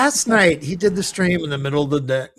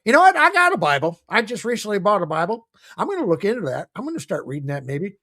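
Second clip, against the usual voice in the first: imitating Joey; 5 semitones higher than usual. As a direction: ham up his excited voice. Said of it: "he was referring".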